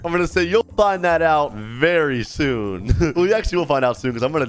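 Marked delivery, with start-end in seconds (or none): 0.4-2.9 slow, teasing threat; ominous villain. Acted. Kidnapper dodging the kid's question, slow and ominous. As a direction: stretch it out with dark intent.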